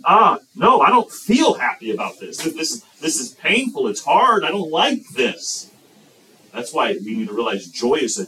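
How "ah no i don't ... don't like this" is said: complaining. Acted. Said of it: "Because we think".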